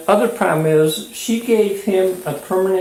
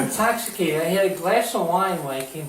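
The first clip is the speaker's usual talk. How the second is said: slightly slurred, tipsy speech. Real, not acted. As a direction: talk like you've had a few drinks. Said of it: "You're slurring words".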